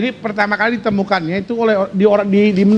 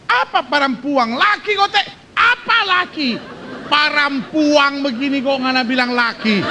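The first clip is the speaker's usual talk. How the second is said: higher, slower baffled husband; husband protesting; 3 semitones higher than usual. Acted. Preacher voices the husband denying it to his wife, higher. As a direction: protest it's a man, not a woman. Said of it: "ini suami bilang".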